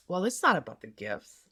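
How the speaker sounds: a cool put-down, leaning on "not"; condescending. Shown as a demonstration. Answering an apology about a gift, condescending. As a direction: talk down to them with "Well, it's not about the gifts.".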